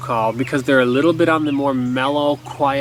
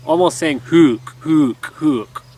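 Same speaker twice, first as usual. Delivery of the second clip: grunted hook; slower than usual. Shown as a demonstration. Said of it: "the back of my throat to kinda close a little bit and almost grunt".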